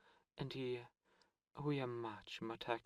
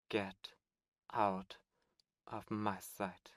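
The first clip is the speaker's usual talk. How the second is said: slow, louder furious command, each word pressed; angry dismissal; 2 semitones lower, 4 dB louder, slower than usual. Acted. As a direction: throw him out with cold fury. Demon lord dismissing Cambion.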